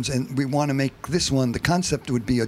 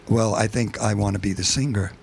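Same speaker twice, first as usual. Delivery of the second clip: deadpan; 4 semitones lower than usual. Retold or imitated. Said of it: "said with a very straight face".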